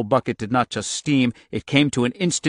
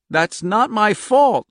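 crying out; 10 semitones higher, 6 dB louder, slower than usual. Acted. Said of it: "she cried".

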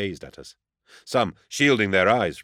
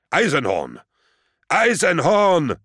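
loud yell, second name higher and drawn out; yelling after someone; 9 semitones higher, 7 dB louder, slower than usual. A narrator's reading. Menderev calling after Eisenhorn as he leaves, yelling. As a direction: yell the name, then stretch it into a high shout. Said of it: "Menderev yelled behind me".

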